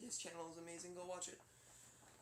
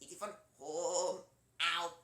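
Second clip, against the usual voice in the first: early E T voice; 5 dB louder, slower than usual. Retold or imitated. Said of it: "Then E T, at the beginning".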